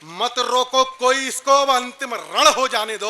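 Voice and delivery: contained heroic verse recital; poetry recitation. Acted. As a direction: recite the battle verse with measured resolve. Repeats battle verse, more contained. (संयत वीर रस काव्य पाठ)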